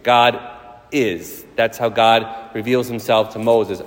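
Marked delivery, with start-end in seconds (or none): 0.0-1.4 slow, drawn-out solemn proclamation; preacher declaring God's eternity slowly; slow preaching. Acted. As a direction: let each phrase land with awe. Slow emphatic answer to child.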